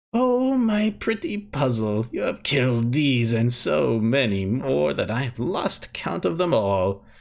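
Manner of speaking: cackling voice. A voice breaks in on the listener standing in the maze again, cackling voice. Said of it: "The cackling voice breaks in".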